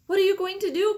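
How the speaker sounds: high, alarmed whisper-cry. A narrator's reading. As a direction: gasp it out in alarm. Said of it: "cried Charlie".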